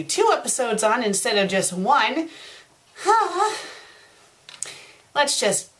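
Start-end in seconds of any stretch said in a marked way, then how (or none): 3.0-3.7 high, short huffed sigh; exasperated sigh. Real, not acted. Exasperated before reading on.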